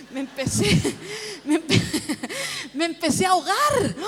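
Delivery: re-enacted gasping, words breaking off; choking up. Preacher retelling how emotion overcame her, mock choking up. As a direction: mimic choking up mid-sentence. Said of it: "muy conmovida me ahogo".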